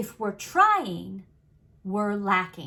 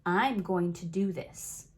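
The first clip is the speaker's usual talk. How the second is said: slower, lower and decided; firm commitment; 4 semitones lower, slower than usual. Shown as a demonstration. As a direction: own it, settle every word down. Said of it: "Can you feel where the power lies".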